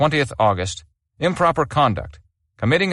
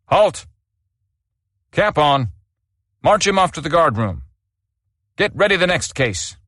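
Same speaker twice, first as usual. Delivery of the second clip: shouted drill commands; 5 semitones higher than usual. Acted. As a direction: snap out each order to the squad. Sergeant major marches prisoner off.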